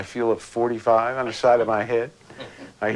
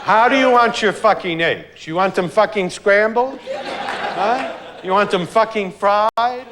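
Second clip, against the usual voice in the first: higher, louder furious mother yelling through a laugh; mock angry mother; 8 semitones higher, 5 dB louder than usual. Mother slamming breakfast at her son, loud mock fury. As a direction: bark out each fucking like an enraged mom.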